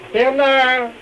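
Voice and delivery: calling across the house. Acted. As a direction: call him from another room. Calling grandson. (appel à travers la maison)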